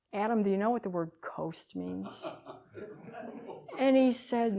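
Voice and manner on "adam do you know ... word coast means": put-on softer, kind question to a child; gentle question. Aunt gently asking her young nephew, soft and kind. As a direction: ask it tenderly, like to a small kid. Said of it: "I asked so gently".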